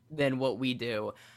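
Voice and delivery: ordinary talk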